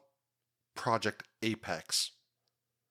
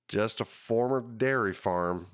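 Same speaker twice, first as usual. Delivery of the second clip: put-on southern accent; 3 dB louder than usual. Host quoting the county director Bob in a mild southern accent. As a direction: quote the developer with a lazy southern twang on "dairy". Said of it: "I don't know why I just used that kind of accent".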